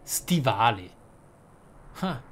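ordinary delivery

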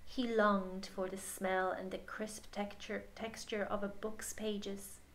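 gentle picture-book reading voice; story narration. Acted. Reading the picture book aloud to a child, gentle storytelling. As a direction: read it to children at bedtime.

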